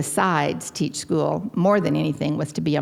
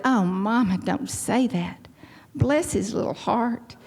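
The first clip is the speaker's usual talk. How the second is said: pitying protest; 4 semitones higher, slower than usual. Retold or imitated. Defends drunk husband to her mother.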